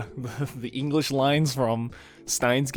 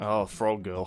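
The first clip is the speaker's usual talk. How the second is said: normal talking voice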